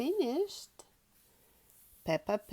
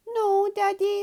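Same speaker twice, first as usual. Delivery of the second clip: high insistent Peppa; 11 semitones higher, 7 dB louder than usual. Acted. Peppa denies being sleepy.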